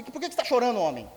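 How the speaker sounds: gruff queen scolding her crying husband; rude wife. Retold or imitated. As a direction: bark it at him like a gruff wife. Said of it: "Ela era meio grossona".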